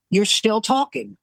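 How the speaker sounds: slow, mock-scolding accusation; nagging wife. Wife to husband after his apology, nagging. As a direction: keep at him as the wife. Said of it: "She wouldn't let it go".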